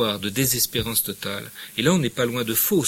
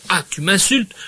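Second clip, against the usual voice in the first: high, loud indignant question; offended outburst; 9 semitones higher, 8 dB louder than usual. Acted. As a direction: take offence loudly. Acted quarrel, Bouvard offended.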